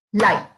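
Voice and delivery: "Light" as one short, self-contained beat; single syllable. Shown as a demonstration. Teacher asking students to count syllables, "Light" said in one beat. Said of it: "Cuántas sílabas pronunciamos".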